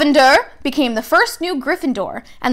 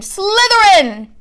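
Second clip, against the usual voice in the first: loud, high, slow cry of the house; shrieked Sorting Hat verdict; hat screaming; 9 semitones higher, 4 dB louder, much slower than usual. A narrator's reading. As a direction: fling the name out at once. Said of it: "when it screamed".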